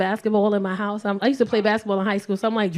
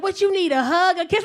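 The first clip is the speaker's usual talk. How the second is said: higher mock-sweet offer; hammed-up sweet check-in; imitating coaxing boyfriend; 7 semitones higher than usual. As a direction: coax her in a raised pitch. Boyfriend repeats it mid-argument.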